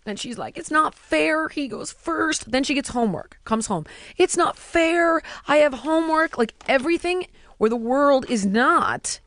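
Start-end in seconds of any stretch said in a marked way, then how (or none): 0.6-2.5 mock sulk, dragging out the complaint; put-on kid's grievance; sulky pouting. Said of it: "she starts sulking and pouting". 4.2-6.4 sulky pouting. Retold or imitated. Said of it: "she starts sulking and pouting".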